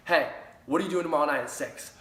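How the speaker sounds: high, loud and fast with excitement; excited invite. Shown as a demonstration. Coach acting a hyped call to a friend, excited and loud. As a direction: hype it up like the party of the year. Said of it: "that excitement in my voice".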